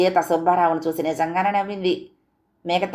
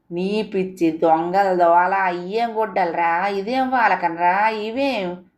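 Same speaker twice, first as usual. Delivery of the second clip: put-on slow, fussing old grandmother; grandmother's voice; slower than usual. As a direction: drag it out like a puzzled old granny. (నెమ్మదిగా ముసలి బామ్మ గొంతు)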